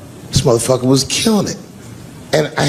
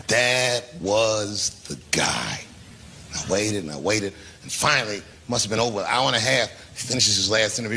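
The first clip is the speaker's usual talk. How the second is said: hushed storytelling; 9 dB quieter than usual. Acted. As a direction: draw the crowd in, almost murmuring.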